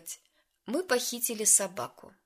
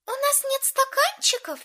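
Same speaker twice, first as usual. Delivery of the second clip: high, louder disbelieving question; alarmed question; 6 dB louder than usual. A narrator's reading. Lauren realizes there are no cups, alarmed. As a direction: ask it in sudden alarm. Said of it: "спросила Лорен".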